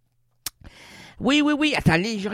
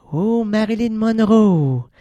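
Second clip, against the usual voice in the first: seance medium; 4 dB louder, slower than usual. Acted. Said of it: "le médium qui rentre en transe".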